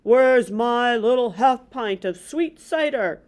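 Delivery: slow, gently voiced father calling out; lightly voiced Pa calling his daughter. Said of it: "and call".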